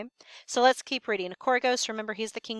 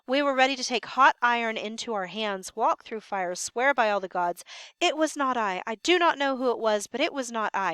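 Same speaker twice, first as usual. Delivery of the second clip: scared guard. Acted. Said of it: "Notice how scared the sentry is".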